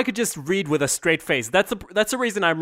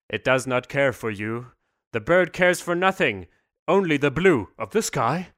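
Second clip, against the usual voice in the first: mock poetry recital. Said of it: "do a poem with me".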